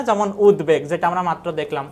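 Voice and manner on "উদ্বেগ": উদ্বেগ with a clear b after the d; sounded ব-ফলা. Shown as a demonstration. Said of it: "ব ফোলার উচ্চারণ".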